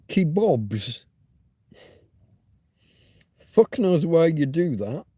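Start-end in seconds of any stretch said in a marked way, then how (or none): 0.1-1.0 "Kebabs" with an open "bob" second syllable; North American pronunciation. Shown as a demonstration. Streamer translating for Americans and Canadians, North American pronunciation. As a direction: say "Kebabs" as kee-BOBS. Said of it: "let me translate for the Americans and Canadians".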